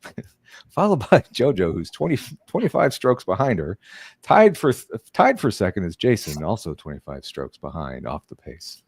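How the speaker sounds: hushed golf announcer reading scores; lightly voiced golf broadcaster; golfing sportscaster voice. Shown as a demonstration. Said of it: "that's my golfing sportscaster voice".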